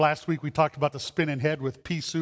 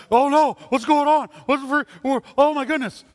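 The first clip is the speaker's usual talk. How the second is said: higher, louder flustered alarm; mock panic; 7 semitones higher, 4 dB louder than usual. Startled person in church reacting to something bizarre, mock panic. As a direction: fluster like someone caught off guard.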